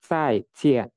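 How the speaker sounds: "Zaijian" with two firm falling syllables; stamped fourth tone. Shown as a demonstration. Teacher repeats after saying to stamp it, stamped "Zaijian". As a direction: thrust each syllable of "Zaijian" downward. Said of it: "Jadi dihentakan".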